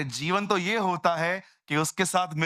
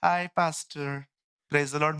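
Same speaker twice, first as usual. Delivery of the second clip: casual greeting; slower than usual. Retold or imitated. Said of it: "नया word आया है, हाय".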